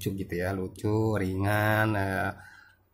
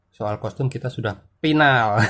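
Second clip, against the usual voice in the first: put-on light Sundanese accent, F becomes P in "final" as "pinal"; a hint of Sundanese lilt, half laughing; 3 dB louder than usual. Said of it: "pakai logat Sunda gitu".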